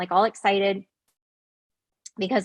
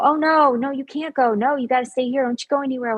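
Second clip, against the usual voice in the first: higher-pitched mild urging to stay; retold insistent pressure; 3 semitones higher than usual. Man trying to keep her from leaving, lightly insistent. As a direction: imitate someone pressing, without getting violent. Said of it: "get me to stay aggressively".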